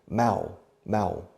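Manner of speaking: "Mao, Mao" as two separate syllables with no N; sound-alike demonstrated. Shown as a demonstration. Teacher likening the first syllable to Mao, sound-alike demonstrated. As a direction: say "Mao" cleanly, rhyming with cow. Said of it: "como el dictador chino".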